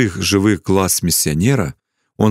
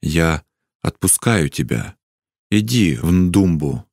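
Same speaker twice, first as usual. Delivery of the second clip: gentle, lowered and unhurried permission; soft; 3 semitones lower than usual. A narrator's reading. Chief releases his son to the missionary, softly. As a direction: softly let him go. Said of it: "мягко сказал он".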